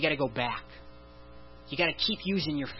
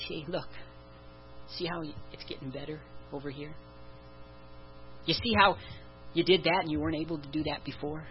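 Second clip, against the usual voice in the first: gentle reassurance. Acted. God gently shows believer progress.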